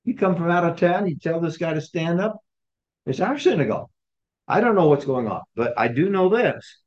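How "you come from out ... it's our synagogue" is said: mildly acted indignation; mock outrage, pitch lifting a little; indignant challenge. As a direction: play an affronted official challenging an outsider. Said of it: "glaring at him saying".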